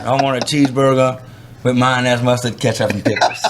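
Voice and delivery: put-on a light Alabama redneck accent on the cheeseburger order. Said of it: "in, uh, Alabama redneck talk".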